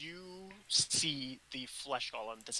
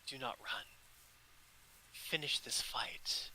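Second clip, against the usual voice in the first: whispered command; 4 dB quieter than usual. Acted. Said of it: "she says".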